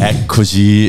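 choked smoker's voice, stretched out; strangled voice. Acted. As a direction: press the word out of a tight throat. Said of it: "questa voce strozzata".

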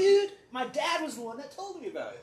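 loud, high, laughing through the words; laughing shout. Real, not acted. Friend swearing a fly story is true, laughing loudly. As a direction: insist while cracking up.

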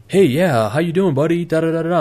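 high, loud, hammed-up friendly bro; overfriendly greeting. Black belt greets the guy at the heavy bag, fake-friendly and loud. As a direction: greet him like an eager old buddy.

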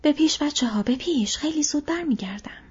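shout. Acted. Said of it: "فریاد زد".

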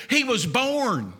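slow, drawn-out sermon line; mock proclamation. Preacher shows how Christmas gets preached, grand proclamation. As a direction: announce it grandly, stretching the words.

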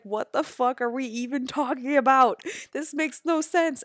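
loud, high, exasperated disbelief; incredulous outburst. Retold or imitated. Two coaches laughing off their silly argument, loud disbelief. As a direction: throw up your hands at the absurdity.

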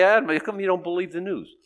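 mock challenge to the pastor; questioning churchgoer. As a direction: put the question as a puzzled critic would. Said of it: "'Cause people say".

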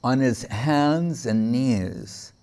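very slow, each word set down heavily; slow it right down to make them picture it; dwelt-on, solemn slow phrase; slow and weighty. Shown as a demonstration. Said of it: "think of this".

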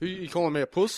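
quick mock South African challenge; attempted South African accent. Co-host mocking offence at the word, attempted South African accent. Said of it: "Is that you South African?".

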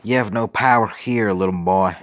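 put-on British accent sneer. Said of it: "Lon sneered".

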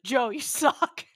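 loud, drawn-out playful taunt; mock jeer. Podcast host ribbing Joe in the story, laughing jeer. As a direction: jeer it slowly, on the edge of laughter. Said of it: "so every time we're like".

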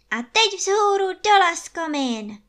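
put-on a boy rallying everyone to lunch; eager child's cry; exclaiming. A narrator's reading. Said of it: "zvolal Jarda".

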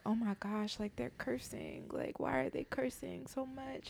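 imitated disapproval. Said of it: "people have been like".

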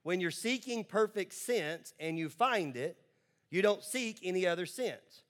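slow, spaced-out phrasing; deliberate, measured repeat for learning. Shown as a demonstration. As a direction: say it slowly, phrase by phrase. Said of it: "I'll say it again a little bit slower".

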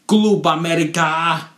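high, loud Spanish cheer; excited cheer. Real, not acted. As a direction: shout it like a fan chanting. Cheering his team.

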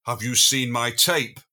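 slow, sonorous imitation of a German accent. Singer asking after her lost cape, sonorous German accent. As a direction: lightly imitate a German speaker, slowly and sonorously. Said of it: "sonorous German accent".

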